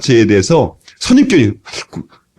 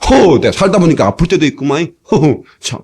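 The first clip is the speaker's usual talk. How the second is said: shrugging chuckle. Pretend. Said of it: "이러면서 말이지".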